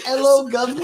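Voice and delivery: mocking copy of bad British; imitated British accent. Co-host ribbing the host's attempt, mock British accent. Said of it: "Your British is".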